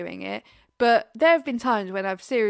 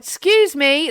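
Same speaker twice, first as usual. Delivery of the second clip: aggressive excuse me; 5 semitones higher, 9 dB louder, slower than usual. Retold or imitated. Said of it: "really aggressively".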